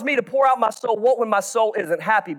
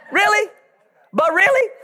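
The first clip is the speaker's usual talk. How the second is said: doubtful prodding; 9 semitones higher than usual. Retold or imitated. Pressing a falsely cheerful churchgoer.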